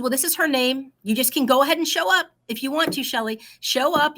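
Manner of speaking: a hint of the keen friend; encouraging friend. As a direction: nudge her warmly upward. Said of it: "She said".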